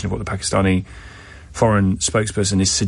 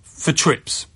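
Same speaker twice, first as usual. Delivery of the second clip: radio presenter read; 2 semitones higher than usual. Acted. Host trails next segment.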